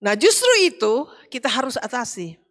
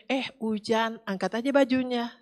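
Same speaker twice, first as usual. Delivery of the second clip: softer, even and relaxed; just say it calmly; a softer, easy reminder; calm plain telling; 7 dB quieter than usual. Retold or imitated. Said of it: "Padahal sebenarnya".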